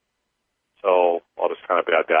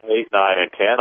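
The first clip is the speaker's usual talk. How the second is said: paced counting. Acted. Leads a clearing count.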